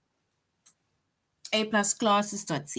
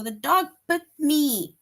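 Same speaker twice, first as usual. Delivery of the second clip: raised, upset cry; alarmed exclamation; 7 semitones higher, 4 dB louder than usual. Shown as a demonstration. Teacher acting a bitten child, raised upset cry. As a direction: say it like you just got bitten. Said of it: "if the dog is chasing you and you run".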